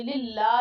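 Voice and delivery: للہ ending in a heavy chest h; للہ with a strong chest-voiced h. Shown as a demonstration. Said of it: "موٹی ہا آ رہی ہے".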